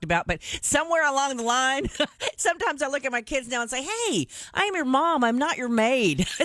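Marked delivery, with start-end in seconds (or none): 3.8-6.2 higher-pitched scolding, half in fun; mock-exasperated mom. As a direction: lay down the law to the kids. Mom scolding her kids.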